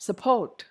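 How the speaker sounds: "Support" stressed on PORT; sup-PORT, light first syllable in "Support"; second-syllable stress. Shown as a demonstration. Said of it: "second syllable".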